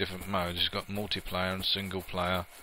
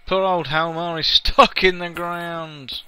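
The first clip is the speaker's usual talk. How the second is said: amused laughing; 7 semitones higher, 9 dB louder, slower than usual. Real, not acted. Laughs at stuck NPC.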